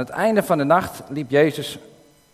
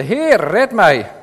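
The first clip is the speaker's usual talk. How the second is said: louder, higher, slow call; read-out cry for help; 6 semitones higher, 6 dB louder, much slower than usual. A narrator's reading. Peter sinking, calling to Jesus, slow loud cry. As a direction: plead to be saved from sinking. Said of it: "en schreeuwde".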